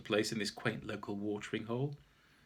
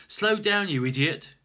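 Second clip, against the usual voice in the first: loud, high yell at oneself; alarmed shout; 9 semitones higher, 10 dB louder than usual. Acted. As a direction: shout it sharply to stop yourself speeding. Scolds self for speeding.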